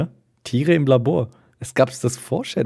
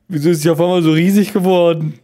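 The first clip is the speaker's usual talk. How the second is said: higher, hurried astonished question; baffled, insistent; 4 semitones higher, 4 dB louder, faster than usual. Real, not acted. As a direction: push the disbelief harder, quickly. Repeats the baffled question more insistently. (verblüfft und nachdrücklich)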